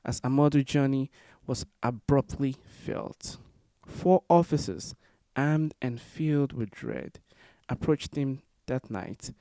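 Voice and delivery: measured memorial poem reading, phrase by phrase; poem recitation. Acted. Poet reading in honor of Amadou Diallo, measured recitation. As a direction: recite it line by line, with deliberate pauses.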